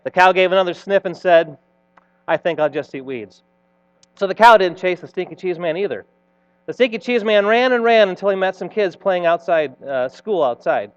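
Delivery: put-on animated read-aloud for children; playful storyteller narration; story reading. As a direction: tell it like a storybook, with lively swells.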